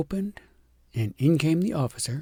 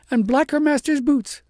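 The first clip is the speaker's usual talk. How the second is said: shepherdess; 13 semitones higher, 7 dB louder than usual. A narrator's reading. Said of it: "said the shepherdess".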